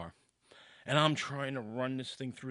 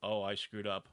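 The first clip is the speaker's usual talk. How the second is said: dismayed inner thought; 4 semitones lower than usual. Retold or imitated. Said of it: "all I'm thinking is".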